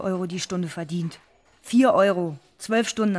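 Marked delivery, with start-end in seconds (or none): 1.6-3.2 indignant. Acted. Outrage at her low wage.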